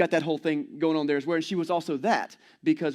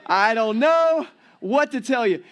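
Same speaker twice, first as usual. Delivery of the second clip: helpless buddy; 4 semitones higher, 5 dB louder than usual. Retold or imitated. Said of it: "I'm like".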